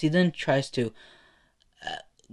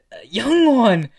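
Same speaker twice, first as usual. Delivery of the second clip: loud, high, drawn-out call; stretched exclamation, pitched up; startled shout; 11 semitones higher, 13 dB louder, slower than usual. Acted. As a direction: call out in alarm to a clinging kid. Hero startled by clinging kid.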